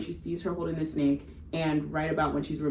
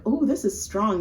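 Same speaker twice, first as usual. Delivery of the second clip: polite respectful; 6 semitones higher, 3 dB louder than usual. Retold or imitated. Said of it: "she's trying to be respectful".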